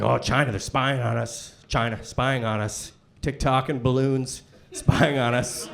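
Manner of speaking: lightly voiced low conspiracy worrier; a hint of a low, grumbling buddy; imitated worried buddy. Hunting buddy fretting about China, low imitated worry.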